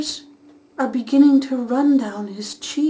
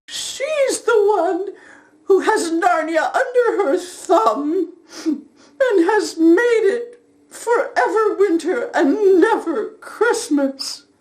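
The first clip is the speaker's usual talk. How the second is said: tearful; 3 semitones higher than usual. Acted. Tearful explanation.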